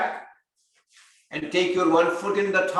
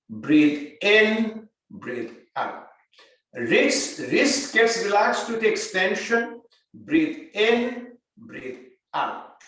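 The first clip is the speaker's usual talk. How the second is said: guided breathing; much slower than usual. Acted. Yoga teacher counting breaths for the class.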